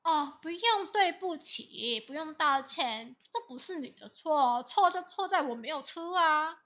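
bitter, slow mock apology brush-off; sulky sarcasm, slow at first; retold huffy sarcasm; sarcastic angry quote. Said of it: "然后他就生气".

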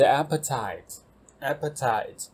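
appetite said slowly and carefully, AP-pe-tite; vocabulary teacher models appetite twice, careful pronunciation; clear model word. Shown as a demonstration. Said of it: "下一个是appetite".

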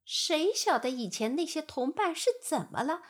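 high, loud breezy fly voice, speeding up; rally everyone to go; relaxed flies. Acted. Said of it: "他们轻松地说". (轻松的苍蝇)

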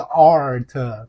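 slow "art" with the r sounded; teacher's drawn-out "art", not a bare "ah"; r-coloured vowel. Shown as a demonstration. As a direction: stretch "art", curling into the r. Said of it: "不要念啊".

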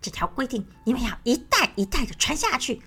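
scolding. Acted. Crocodile scolding his babies after being tricked, mild anger. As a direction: grumble orders like an angry crocodile. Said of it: "然后大骂一顿".

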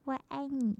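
a softly murmured I love you, like the little one; imitating a shy child's quiet reply; small shy voice. Auntie voices the shy nephew's softly murmured reply. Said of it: "他就小小声说".

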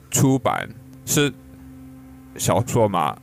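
ordinary talk

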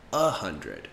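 "a hundred" with a light unstressed "a". Shown as a demonstration. Teacher showing "a hundred" to learners. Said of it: "We usually will just say".

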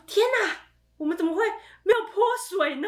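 high, laughing disbelief at their own mistake; laughing dismay. Retold or imitated. Sisters laughing in dismay at the failed lie, high and giggly. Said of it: "然后说，天哪".

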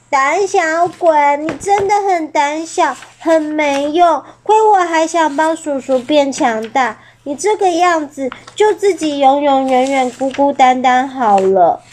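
put-on exasperated young pterosaur voice; angry scolding. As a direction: scold him for being a coward. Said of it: "生气地飞走了".

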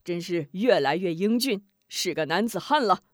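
lightly voiced old woman, laughing; a hint of a doting grandma; 老奶奶咯咯笑着说; chuckling old granny. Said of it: "咯咯笑道".

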